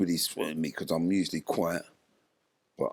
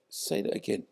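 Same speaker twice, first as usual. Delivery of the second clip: quiet menace; 5 semitones higher than usual. Retold or imitated. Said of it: "went in his face and said".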